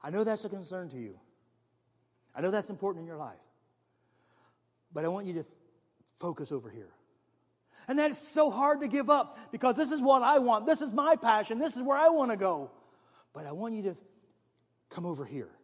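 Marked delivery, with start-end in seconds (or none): 0.0-6.9 softly, as the inner voice of the Spirit; quiet nudge to refocus; gentle whisper. Acted. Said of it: "the Spirit of God just whispers". 13.3-15.5 soft coaxing inner voice; hushed invitation; gentle whisper. Acted. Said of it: "the Spirit of God just whispers".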